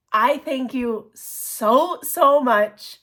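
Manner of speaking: heartfelt thanks. Real, not acted. Thanking the gift giver, stretched.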